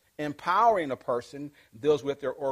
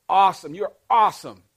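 loud, high cheer of awesome; a boss cheering an employee, loud excited praise; 4 semitones higher, 11 dB louder than usual. Pretend. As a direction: hype them up loudly. Voicing encouraging praise.

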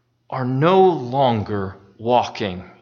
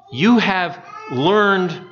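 slow emphasis; 3 semitones higher, much slower than usual. Shown as a demonstration. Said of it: "you're meant to slow down".

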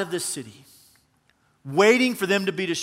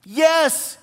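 a high, loud, hammed-up wail of yes; super dramatic; 9 semitones higher, 5 dB louder than usual. Shown as a demonstration. Preacher shows how Jonah dramatically answered God, hammed-up wail. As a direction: overplay it like a sulking diva. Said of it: "did like this 'cause he was being super dramatic".

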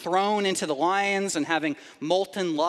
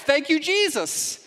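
mock relieved thanks; 8 semitones higher than usual. Relieved survivor thanking God.

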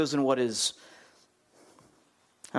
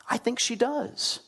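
slow, higher, drawn out; slow knowing aside; 8 semitones higher, slower than usual. Acted. Preacher nudging the congregation toward the answer, slow and knowing. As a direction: tease the obvious answer.

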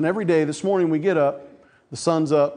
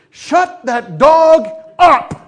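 loud, high, drawn-out holler with a laugh; yelling at the dog; 10 semitones higher, 9 dB louder, much slower than usual. Retold or imitated. Preacher mock-yells at a noisy dog, loud and stretched. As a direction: bellow it across the yard, half laughing.

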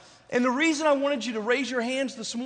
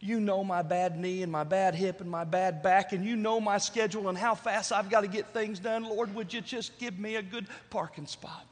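softly acted, pious pleading; mock earnest prayer; 2 semitones lower, 4 dB quieter than usual. Friend praying for a parking spot, mock earnest. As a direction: imitate a friend's humble little prayer. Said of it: "And I just prayed".

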